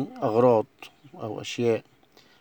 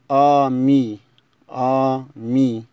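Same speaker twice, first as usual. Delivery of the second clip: ami called out louder, a-MI; loud model word; 9 dB louder, much slower than usual. Shown as a demonstration. Teacher calls out ami loudly to the class. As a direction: call out ami clearly. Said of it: "الكلمة رقم اتناشر".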